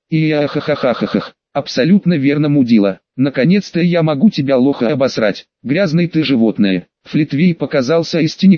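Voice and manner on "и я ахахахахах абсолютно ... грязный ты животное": cackling, distorted demon voice; eldritch horror. Acted. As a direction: laugh madly, then spit insults. Demon cackles and insults Sonic.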